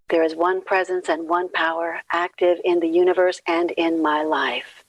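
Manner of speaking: even recitation, slowing at the close; recited affirmation. Acted. Leader begins with the great unity affirmation, measured recitation. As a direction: recite it steadily, then draw out the last phrases.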